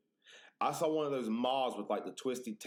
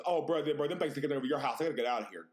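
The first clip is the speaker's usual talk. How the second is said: urgent, raised retold outburst; mock panic; 4 semitones higher, 4 dB louder, faster than usual. Friend to Justin about the house, mock panicked. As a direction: blurt it out like a friend bolting. Retelling friend fleeing over spiders.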